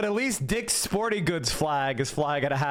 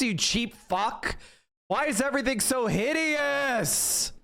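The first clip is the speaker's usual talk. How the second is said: exasperated rant; 5 semitones higher than usual. Real, not acted. Streamer rants at parking lot.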